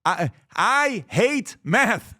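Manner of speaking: slow, whiny mock complaint; whiny mock parent. Mocking parents who complain about math, slow whine. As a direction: mimic a moaning parent. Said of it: "Take these words out of your mouth".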